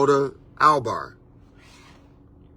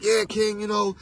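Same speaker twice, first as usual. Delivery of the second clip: imitating a sister; 2 semitones higher, faster than usual. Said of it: "And the sister was like".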